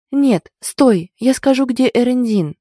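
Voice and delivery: high, loud panicked stop; urgent shout. Acted. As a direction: cry out to halt him. Heroine stops advancing attacker. (отчаянный крик)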